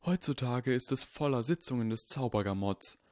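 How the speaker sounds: put-on old wizard, hushed and grave; voiced old Dumbledore. Dumbledore warning Harry, hushed old wizard voice. Dumbledore sighs about his life.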